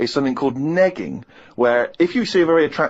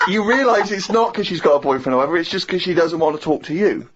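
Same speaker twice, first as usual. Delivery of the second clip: usual speaking voice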